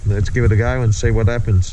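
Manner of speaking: talking through a dust mask; muffled voice behind a mask. Real, not acted. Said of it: "if I sound a bit muffled, obviously because I got mask on".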